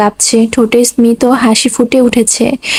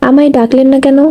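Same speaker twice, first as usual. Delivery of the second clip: ordinary delivery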